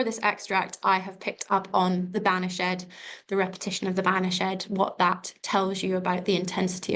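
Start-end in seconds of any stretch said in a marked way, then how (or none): 2.2-2.9 "Banached" said as BAN-ish-ED; extra syllable. Shown as a demonstration. Teacher picking the word for an essay, extra syllable in "Banached". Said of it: "accent on "vanished" adds". 4.0-4.6 "Banached" said as BAN-ish-ED; extra syllable. Shown as a demonstration. Teacher picking the word for an essay, extra syllable in "Banached". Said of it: "accent on "vanished" adds".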